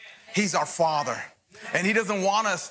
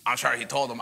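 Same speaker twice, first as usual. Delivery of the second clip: gossiping churchgoer; 6 semitones lower than usual. Retold or imitated. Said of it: "be like".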